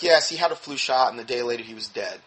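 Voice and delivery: matter-of-fact report, no drama. Retold or imitated. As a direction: imitate someone calmly stating the facts. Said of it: "she was real matter of fact".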